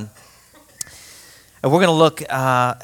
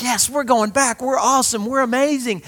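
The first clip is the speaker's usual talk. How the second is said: triumphant; 10 semitones higher than usual. Retold or imitated. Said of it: "we're laughing hysterically 'cause we're like".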